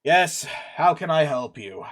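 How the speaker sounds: slow, lightly voiced weary official; tired guard captain. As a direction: answer slowly, a touch overworked and frazzled. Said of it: "His eyes are tired".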